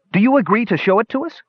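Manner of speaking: put-on high, pressing young voice; high demanding voice. A narrator's reading. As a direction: demand an answer from the dwarf. Brothers demand of dwarf.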